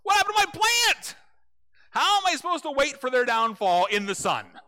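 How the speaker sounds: very high, loud outraged yell; ranting shout. Retold or imitated. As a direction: blow up at God over a lost plant. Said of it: "he rants to God".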